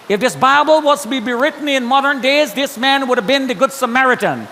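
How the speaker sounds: high, sustained declaration; emphatic testimonial. Retold or imitated. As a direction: vouch for him to everyone present. Rescuer publicly vouching for Stan.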